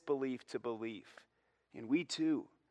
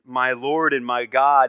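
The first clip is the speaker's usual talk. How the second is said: exclaimed confession; 14 dB louder than usual. Acted. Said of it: "Thomas's response is".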